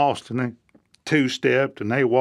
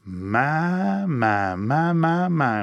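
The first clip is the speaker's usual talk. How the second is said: admiring my my my; much slower than usual. Shown as a demonstration. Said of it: "then you just gotta say".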